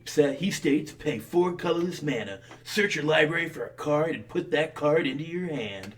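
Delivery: hyped gamer bro reading a card. Acted. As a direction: read it like an excited gamer. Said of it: "Did you need to read it in that voice?".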